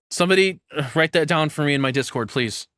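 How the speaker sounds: high and loud, eagerly calling out to chat; excited request. Real, not acted. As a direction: grab the chat's attention, thrilled. Streamer excitedly asks chat for help.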